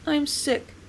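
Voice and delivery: high, feeble wailing voice; weak wail. A narrator's reading. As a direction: whimper it out weakly. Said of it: "I wailed in a weak voice".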